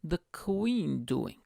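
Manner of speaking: put-on high, deliberate Bulgarian-accented father; imitated Bulgarian dad; dad's Bulgarian accent. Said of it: "and then he says".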